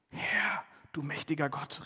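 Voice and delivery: a hushed, awed "Herr, du mächtiger Gott", breath barely voiced; awed half whisper. Gideon calls to God after the angel vanishes, in a hushed, awed voice. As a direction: gasp it out in holy fear. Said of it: "rief er".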